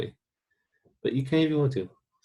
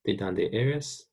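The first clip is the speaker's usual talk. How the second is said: slower repetition for the class; teacher drilling the phrase; slow practice repeat; slower than usual. Shown as a demonstration. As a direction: model it again carefully. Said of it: "Let's practice saying that".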